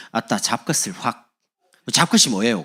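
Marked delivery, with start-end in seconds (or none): 0.1-1.3 slow mock Jeolla threat; Jeolla dialect. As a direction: imitate a Jeolla speaker telling someone off. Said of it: "전라도". (느릿한 전라도 사투리로)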